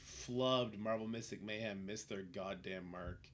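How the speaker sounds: ordinary talk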